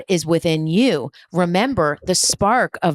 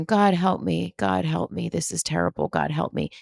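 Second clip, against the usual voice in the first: soft, near-whispered pleading; mock helpless plea; 5 dB quieter than usual. Imitating a stuck listener praying, soft helpless plea. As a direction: fade into a small hopeless plea. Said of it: "you're just sitting there going".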